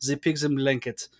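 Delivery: lightly imitated German accent; a hint of movie-nihilist German; weird German accent. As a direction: say it as a mock German. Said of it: "in that weird German accent".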